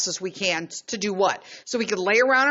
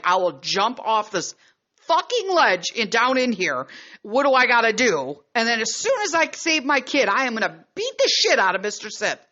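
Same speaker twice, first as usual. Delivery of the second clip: worked-up mock yelling; retold yelling; 3 semitones higher, 3 dB louder than usual. Mother retells yelling down to rescue her kid, worked up. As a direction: retell a furious threat, raised but not full shout. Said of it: "I was yell".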